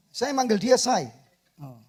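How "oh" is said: ordinary talk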